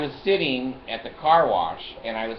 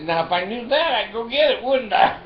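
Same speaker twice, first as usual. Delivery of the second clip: higher and louder sarcastic comeback; mock-indignant, louder and higher; sarcastic retort; 9 semitones higher, 6 dB louder than usual. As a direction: throw the obvious answer back at her. Sarcastic retort to wife's question.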